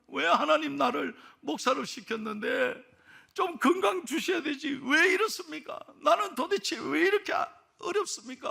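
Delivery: crying out to God in complaint; mock tearful complaint. Pastor retells a man's tearful prayer, a pleading cry. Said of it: "하나님 앞에 매일 우는 거죠".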